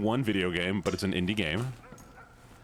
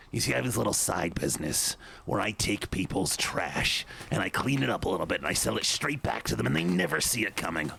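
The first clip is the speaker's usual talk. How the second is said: goblin voice. Acted. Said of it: "My goblin's more up here".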